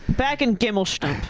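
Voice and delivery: Doofenshmirtz voice. Retold or imitated. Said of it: "What's something that Doofenshmirtz says?".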